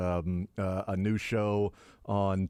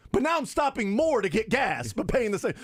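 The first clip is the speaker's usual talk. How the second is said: high mock voice; 11 semitones higher, 4 dB louder than usual. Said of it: "Kenny was like".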